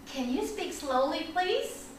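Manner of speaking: soft careful question, lifting on please; student's polite request. Acted. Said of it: "you can raise your hand and say".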